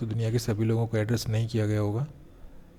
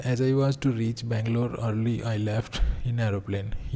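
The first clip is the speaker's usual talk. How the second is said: reading an example sentence word by word; slow classroom dictation; much slower than usual. Acted. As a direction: spell it out slowly for students to copy. Rereads example sentence slowly.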